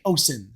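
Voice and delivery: "ocean" said with a plain S, OH-sin; deliberate mispronunciation. Shown as a demonstration. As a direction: swap the SH in "ocean" for an S. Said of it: "you could say ocean instead".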